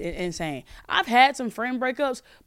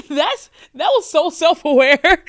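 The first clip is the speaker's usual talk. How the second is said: high, loud amused laugh; laughing loudly, delighted; 6 semitones higher, 10 dB louder, slower than usual. Real, not acted. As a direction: crack up at the caller. Laughs at caller.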